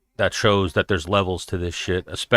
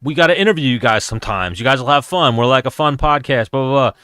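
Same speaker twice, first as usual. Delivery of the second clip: higher-pitched, chatty mock sales pitch; upbeat self-quote, pitched up; breezy retold pitch; 5 semitones higher than usual. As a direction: replay your own friendly invitation. Retelling his casual podcast pitch.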